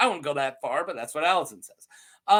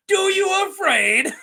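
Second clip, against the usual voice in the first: high, loud mocking yell; hammed-up taunting shout; 12 semitones higher, 5 dB louder than usual. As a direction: bellow it as a teasing jab. Mocking the knight's question.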